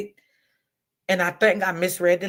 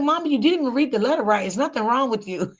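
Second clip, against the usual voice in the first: higher, fast scolding daughter; lightly voiced daughter scolding mom; imitating daughter; 6 semitones higher, faster than usual. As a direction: rattle it off high like an exasperated daughter. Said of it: "She was like".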